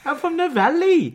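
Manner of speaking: high, loud mock Welsh accent; hammed-up Welsh accent. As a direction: pitch up into a cartoon Welsh lilt. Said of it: "One more, Welsh".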